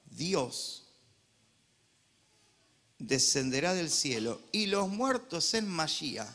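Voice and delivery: slow, emphatic Bible reading; solemn reading from the pulpit; scripture reading. Acted. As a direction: read the verse with weight. Reads scripture aloud.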